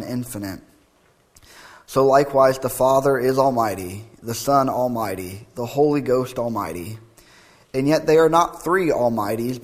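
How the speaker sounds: emphatic, measured formal reading; creed recitation. Acted. Preacher reading the Athanasian Creed to the congregation, formal recitation. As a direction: proclaim each clause in a steady cadence.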